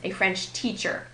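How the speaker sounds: French TEACHER, second word keeping its weight; noun-phrase stress on teacher. Shown as a demonstration. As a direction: say French separately, then land on teacher. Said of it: "French here is modifying teacher".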